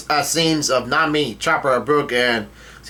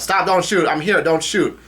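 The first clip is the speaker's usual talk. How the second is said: mild mock yell, pitched up; half-raised voice, imitating a plea to hold fire; retold yell; 4 semitones higher than usual. Caesar drops from a tree begging Capone not to shoot, mild mock yell. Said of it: "plops down from a tree and yells out".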